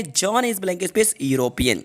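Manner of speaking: very slow, each word apart; slow dictation. Shown as a demonstration. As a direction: read the question out slowly. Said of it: "हमारा next question है". (बहुत धीमे पढ़कर लिखवाना)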